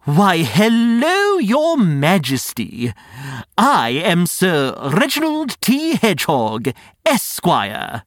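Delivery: slow, stately, showy welcome; bow with the words; grand courtly greeting. Acted. Greeting a princess formally.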